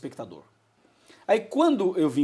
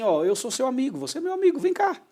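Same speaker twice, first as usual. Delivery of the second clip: affectionate invitation; 6 semitones higher than usual. Shown as a demonstration. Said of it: "É um carinho".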